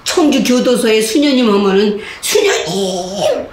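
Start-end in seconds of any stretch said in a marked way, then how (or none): 2.2-3.5 slow drawn-out call, then high; inmate farewell. Retold or imitated. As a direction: say goodbye to the nun, lingering. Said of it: "이러고 떠나거든". (수녀님께 작별 인사하는 죄수 흉내)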